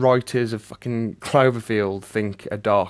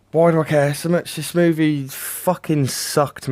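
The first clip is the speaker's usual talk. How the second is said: higher-pitched, fed-up venting; exasperated rant; 4 semitones higher than usual. Real, not acted. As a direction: despair at your own job, pitch raised. Ranting at having to review it.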